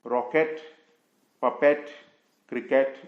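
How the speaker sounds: रॉकेट, पपेट, क्रिकेट each ending in open "et"; spelling pronunciation. Shown as a demonstration. Teacher warning learners, रॉकेट, पपेट, क्रिकेट with full e endings. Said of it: "बोलने की ज़रूरत नहीं है".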